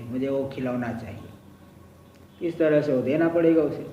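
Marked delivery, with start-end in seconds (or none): 0.0-2.5 put-on slow, much softer little child's plea; whiny child. Teacher imitates a child asking parent for toy, slow and soft. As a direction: lightly voice a child begging for a toy.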